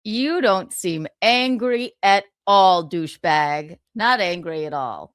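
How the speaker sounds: slow, loud, dripping sarcasm; mock him for pretending he's calm; sarcastic mock. Real, not acted. Host mocking the man's fake calm, slow and sarcastic.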